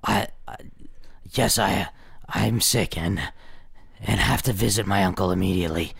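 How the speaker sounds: put-on young girl. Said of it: "And play a young girl".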